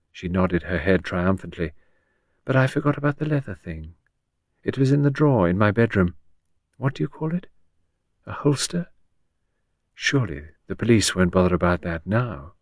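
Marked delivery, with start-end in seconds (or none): 2.4-12.5 a touch higher, naive confiding character; lightly voiced Gerda. Gerda explains her plan to Henrietta, lightly voiced confiding tone.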